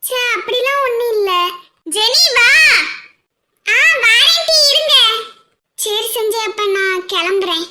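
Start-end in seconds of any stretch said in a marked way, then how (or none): 2.0-2.5 loud call across the room; shouting a friend's name to come. Acted. Calling friend from a distance. 3.7-4.9 loud, high laughing answer; laughing shout back to a friend; laughing reply. Acted.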